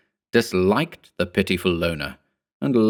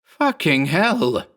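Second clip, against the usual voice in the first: slow, higher yelled curse; dragged-out yell; 9 semitones higher, much slower than usual. A narrator's reading. Berman yells his curse at the clone, slowly. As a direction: stretch the curse out. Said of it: "he yelled".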